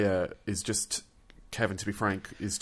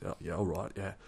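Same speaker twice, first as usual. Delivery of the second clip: softer, lightly imitated English accent; 6 dB quieter than usual. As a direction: answer casually in a mock English accent. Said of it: "it was actually an English accent".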